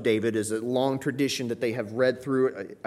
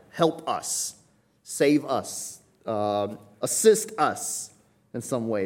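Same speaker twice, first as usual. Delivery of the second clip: pleading cry for help, a touch raised; desperate cry; 2 semitones higher, 4 dB louder, much slower than usual. Retold or imitated. Preacher voicing the crowd as a mild desperate plea. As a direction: beg like someone in desperate need. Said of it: "this is like almost a desperate cry".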